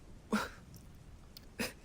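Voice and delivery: soft breathy chuckle. Acted. Laughing at his own sleepy voice, soft chuckle. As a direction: chuckle softly at yourself.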